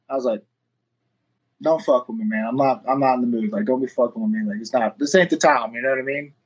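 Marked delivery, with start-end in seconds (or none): 1.6-5.7 low, serious plea not to joke; retold warning. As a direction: lower your voice, warn him off in earnest. Retelling his disbelief at surprise news.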